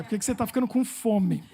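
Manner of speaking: chuckling through the line; laughing translation. Retold or imitated. Laughing as he explains his English mistake to the audience. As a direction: laugh while explaining the mix-up. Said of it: "Que é".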